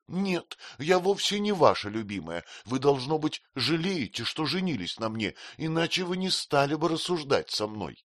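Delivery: high, hurt retort; hurt objection. A narrator's reading. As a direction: protest like a wounded child. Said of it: "возразила Дора". (обиженное возражение, выше)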